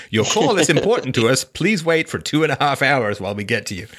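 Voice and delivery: light mock hold-message announcer; phone menu voice. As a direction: imitate a canned phone recording. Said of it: "Soviet era levels of customer service".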